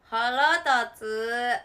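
loud, long drawn-out grumble; annoyed. Real, not acted. Gamer venting after being beaten, loud drawn-out annoyance. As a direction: stretch out the exasperation loudly. Vents after losing in game.

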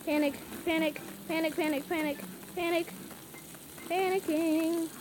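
chanted panic, stretched on the last word; playful panic. Real, not acted. Player telling viewers about the game rush, playful panic. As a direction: repeat it in a mock-frantic little string. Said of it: "I'm panicking, you guys".

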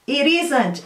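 "It isn't" run together with a tapped t; "It isn't" as a teacher's model; linked pronunciation demo. Shown as a demonstration. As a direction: link "It isn't" into one flowing word. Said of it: "é diferente, ó. Repeat".

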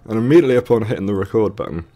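hoarse, strained voice from a sore throat; talking through a sore throat. Real, not acted. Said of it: "I've got a sore throat from a virus".

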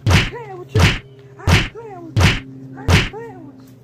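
loud slow threat; loud warning. Acted. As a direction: warn her you're not joking.

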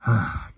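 a short tired sigh; weary sigh. Acted. Professor sighing over the problem, tired sigh. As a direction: let out a heavy sigh. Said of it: "sighed the professor".

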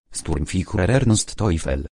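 slow, weighted words Sturmfichrer Ernst Teufel; with emphasis. Acted. Boy proudly naming his father's rank, slow and emphatic. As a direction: press each word of Sturmfichrer Ernst Teufel slowly and firmly. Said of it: "podkreślił z naciskiem".

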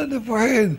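high-pitched frightened confession; acted fear. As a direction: plead as if scared for your life. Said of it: "מה הוא מפחד?".

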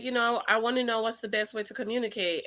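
mildly gentle imitation of a husband; trying to be nice. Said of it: "he's trying to be nice".

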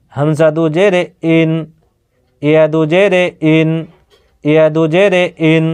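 measured, evenly paced recitation of each letter with দু জেরে; spelling drill. Shown as a demonstration. Teacher spelling Arabic letters for home learners, steady recitation drill. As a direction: chant the spelling like a teacher, one letter at a time. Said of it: "আমি বানান করে পড়ছি".

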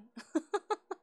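short high rising giggle; little squeaky laugh. Real, not acted. Laughs at own plan.

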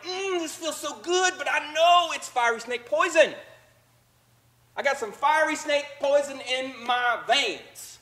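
hammed-up delight in the poison; relishing the poison. Voicing himself enjoying outrage.

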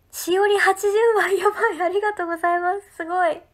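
high, loud, excited thanks for a big gift; thrilled thanks. Real, not acted. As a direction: burst out with delight. Big gift read on stream.

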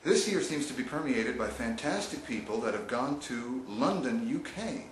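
put-on a faint, barely-there British accent; bad British accent. Host trying a British accent while presenting awards, weak British accent. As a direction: attempt a posh British accent and mostly miss. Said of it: "Did I say that in a British accent?".

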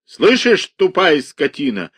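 enraged yell through the door; furious shout. A narrator's reading. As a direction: scream at the orderly. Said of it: "крикнул Иван Дмитрич".

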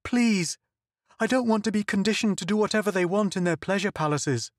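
high, sobbing desperate plea; begging through tears; tearful pleading. Acted. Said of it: "She sobbed again".

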